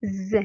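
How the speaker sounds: "Z" said as a voiced buzz, zeu; sound demonstration. Shown as a demonstration. Teacher on S between two vowels, "Z" pronounced as a buzz. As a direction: give "Z" as its sound, not the letter's name. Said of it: "donc on la prononce".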